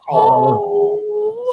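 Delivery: high cooing oh; cooing at cat. Real, not acted. Speaking to the cat, high cooing voice.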